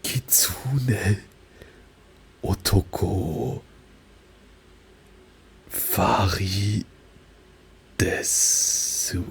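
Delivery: slow, deliberate self-intro in German-flavoured Japanese; unhurried German-accented Japanese. Shown as a demonstration. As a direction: stretch the words like a German learner. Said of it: "this would be".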